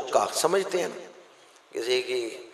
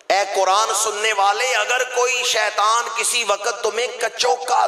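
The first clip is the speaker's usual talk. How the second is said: high, loud fervent sermon delivery; preaching at full force; 8 semitones higher, 3 dB louder than usual. Acted. Preacher warning listeners about Satan's prodding, fervent high voice. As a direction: drive the warning home to the crowd.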